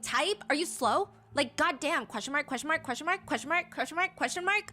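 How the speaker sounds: high, incredulous mock rant rising; exasperated sarcasm building up; mock exasperation. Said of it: "responds in all caps".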